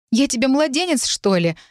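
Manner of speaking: high-pitched, offended question; indignant, rising in anger; indignant retort. A narrator's reading. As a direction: throw it back, affronted. Confusion turns to anger.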